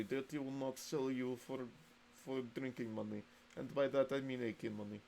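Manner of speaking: mock Russian accent, lightly put on. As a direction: play a gruff Russian comrade, half joking. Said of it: "I don't know why I went to Russian voice".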